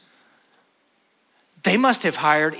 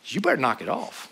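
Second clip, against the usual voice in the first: a hint of a stern father, softer, low warning; stern dad voice; 4 dB quieter than usual. Dad with a furrowed brow warns his kids, mildly stern. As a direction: quietly warn like dad using your full name. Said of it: "he gets that deep voice".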